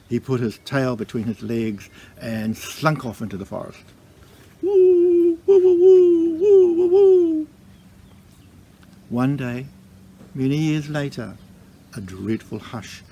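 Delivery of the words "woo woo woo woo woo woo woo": loud, very high howling woos; dog howl. A narrator's reading. Embarrassed dog slinks into the forest, howling. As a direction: howl like a dog running away.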